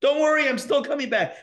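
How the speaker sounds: high, gentle reassurance; calm the scared part of you; soothing self-talk. Retold or imitated. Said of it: "project a little louder".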